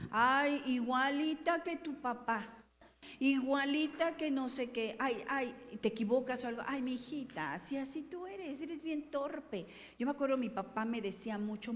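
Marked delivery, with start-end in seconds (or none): 0.1-9.7 voz de mamá que regaña, más aguda y arrastrando el final; mamá regañona imitada. Retold or imitated. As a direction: imita a la mamá que reprocha, alargando "torpe". (una mamá regañando a su hija torpe, en tono de reproche)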